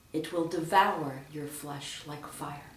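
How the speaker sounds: slow, low line with "devour" emphasized; low, deliberate reading, weight on "devour"; stress on DEVOUR. Shown as a demonstration. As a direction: lean on the verb "devour". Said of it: "with emphasis on the verb".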